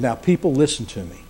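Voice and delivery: low, soft call for attention; hushed appeal. Retold or imitated. Preacher voicing Peter to the Pentecost crowd, hushed appeal. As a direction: draw the crowd in by dropping the voice.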